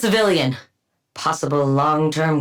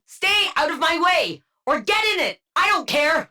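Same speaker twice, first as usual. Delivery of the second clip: dismissive taunt; 9 semitones higher than usual. Acted. Brushing off a teammate.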